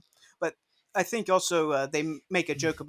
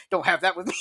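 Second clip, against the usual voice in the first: mildly defensive imitation, pitched up; mock-defensive, a little higher; retold defensive retort; 4 semitones higher, 3 dB louder than usual. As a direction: quote a touchy objection, lightly acted. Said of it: "Shirley gets really defensive".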